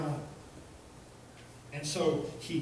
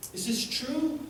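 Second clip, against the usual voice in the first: put-on Jewish accent; 9 semitones higher than usual. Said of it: "God speaks with a Jewish accent".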